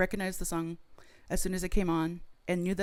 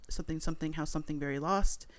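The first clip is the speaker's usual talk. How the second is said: dramatic poetry reading of half-remembered lyrics; spoken word. Pretend. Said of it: "perform a spoken word poem of your version".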